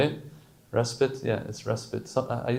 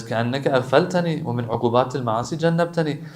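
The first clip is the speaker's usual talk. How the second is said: quick recitation; much faster than usual. Acted. Reciting Arabic du'a again.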